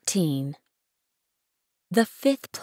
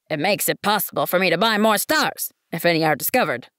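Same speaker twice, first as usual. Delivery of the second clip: pompous businessman; 4 semitones higher, 4 dB louder than usual. Acted. Businessman corrects the prince.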